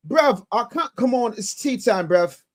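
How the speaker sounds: put-on lightly done slowed Nigerian accent; a hint of a Nigerian accent, drawn out; mock Nigerian accent. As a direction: play a Nigerian accent, stretched out slow. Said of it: "you take the Nigerian accent and you slow it down".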